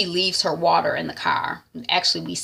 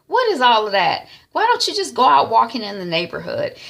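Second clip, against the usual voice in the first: disapproving mom; 4 semitones higher, 4 dB louder than usual. Retold or imitated. Mom disapproving, hand on hip.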